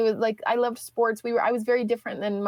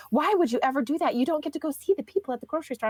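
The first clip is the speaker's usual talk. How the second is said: bubbly sister; 3 semitones higher, much faster than usual. Retold or imitated. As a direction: imitate the cheery sister lightly. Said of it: "talks in a voice that is just like a cartoon character".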